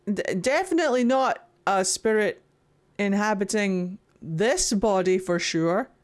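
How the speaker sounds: lightly hammed-up stiff, deliberate greeting; a hint of awkward impostor, halting; mock disguised spirit. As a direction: badly pretend to be a normal living being. Mocking trainer as disguised spirit.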